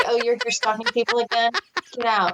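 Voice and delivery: ordinary talk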